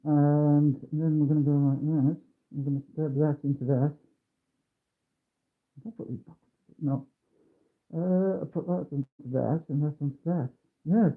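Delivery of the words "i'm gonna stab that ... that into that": muffled behind a mask. Real, not acted. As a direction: talk through a face mask. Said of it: "you sound muffled".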